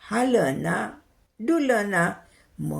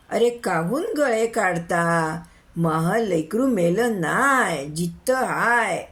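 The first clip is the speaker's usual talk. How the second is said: slow, drawn-out pleading denial; insistent protest; slower than usual. Acted. Old mother telling wailing crowd her son lives, slow protest. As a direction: stretch each phrase in plaintive insistence.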